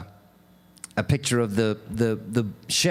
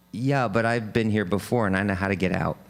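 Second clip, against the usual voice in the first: lower, quick, understated reply; reassuring friend; 5 semitones lower, faster than usual. Retold or imitated. Friend in the well answers the trapped man, understated reassurance. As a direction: answer low and quick, matter-of-fact. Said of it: "And the friend says".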